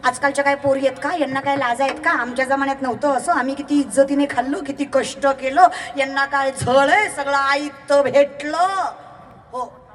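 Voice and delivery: lightly mocked grumbling old woman; imitated old women. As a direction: mimic a doorstep gossip, drawing out the last words. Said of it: "आता या म्हाताऱ्या बायका सुद्धा दारात बसल्या".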